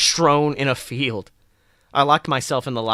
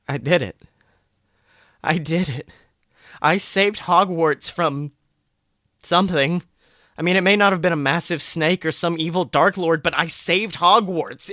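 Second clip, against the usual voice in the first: triumphant; 4 semitones higher than usual. Acted. Narrator's triumphant realization.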